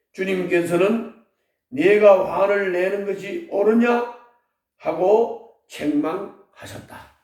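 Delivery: steady, solemn reading of Jonah; scripture reading. Acted. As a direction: read the passage to the congregation. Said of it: "일 절부터 사 절 제가 한번 읽겠습니다".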